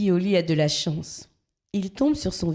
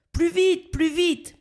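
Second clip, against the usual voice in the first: high, straining breathless urging; out of breath; 12 semitones higher, slower than usual. A narrator's reading. Blackbird slipping on ice urges a push, breathless. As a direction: push with all your strength. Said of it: "s'essouffle Zigomar".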